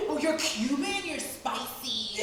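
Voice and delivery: slow, drawn-out leering tourist voice; mocking tourists who call her spicy, slow and leering. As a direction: drag out "You're spicy" like a creepy tourist. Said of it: "imitating tourist men".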